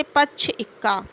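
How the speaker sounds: slight stress on first syllables of पक्ष and इक्का; stress before conjunct. Shown as a demonstration. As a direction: lean lightly into the start of पक्ष and इक्का, before the doubled consonant. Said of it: "वर्ण का स्वर थोड़ा तन जाता". (पक्ष और इक्का के पहले अक्षर पर हल्का बलाघात)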